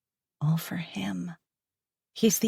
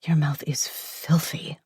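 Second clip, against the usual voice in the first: groaning whisper. Acted. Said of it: "I groan".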